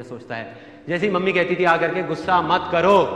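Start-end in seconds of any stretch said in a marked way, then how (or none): 2.0-3.0 slow demo. Shown as a demonstration. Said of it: "तो क्या होता था?".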